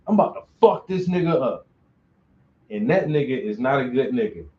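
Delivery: fast, pushed threat, then dropping flat; hostile tone. Shown as a demonstration. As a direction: spit it out like you mean trouble. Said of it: "the tone in your voice and the inflection lets you know".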